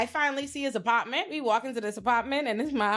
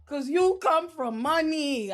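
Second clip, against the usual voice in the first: higher, slow exclamation of sudden understanding; dawning realization; 5 semitones higher, much slower than usual. Retold or imitated. Realizing the date is from money, slow high exclaim. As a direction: let it dawn on you, slowly. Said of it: "I said".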